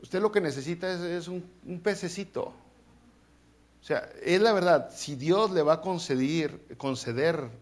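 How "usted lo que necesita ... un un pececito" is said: soft, drily mocking reply; understated deadpan advice; preacher lightly voicing a wry answer to a pray-er; teasing retort. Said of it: "le diría a Dios".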